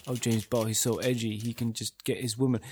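a light, mocking stab at an English accent. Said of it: "going for the stupid English accent".

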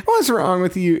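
a hint of a concerned boy; Noah impression. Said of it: "I will always do a Noah impression".

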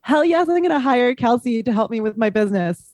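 pumped-up inner yes; excited. Retold or imitated. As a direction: cheer yourself on, rising. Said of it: "for me to say".

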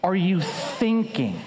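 slow, spaced-out incredulous question; bewildered. Retold or imitated. Bewildered wife asks her returning husband, slow and incredulous. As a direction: imitate a baffled wife, pausing after the first word. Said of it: "My bewildered wife was like".

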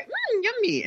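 put-on high cutesy toddler voice; imitating child. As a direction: squeak it like a tiny kid tasting beer. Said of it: "and going".

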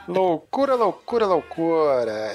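rising laughing repeated word, last one slow; playful catchphrase. Acted. Host riffing a TV catchphrase, laughing and excited.

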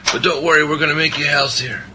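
a lighter touch of mock Italian accent, pitched high; sloppy Italian accent. Reassuring his listeners, with a hint of mock Italian accent. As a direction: keep the mock Italian accent going a little. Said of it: "my kind of sloppy Italian accent".

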